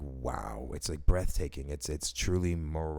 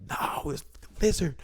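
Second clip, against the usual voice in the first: much higher, slightly louder voice, still freaked out; panicked squeaky reply; 10 semitones higher, 4 dB louder than usual. Retold or imitated. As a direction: tell the family, voice still up in a squeak. Answering wife and kids, panicked.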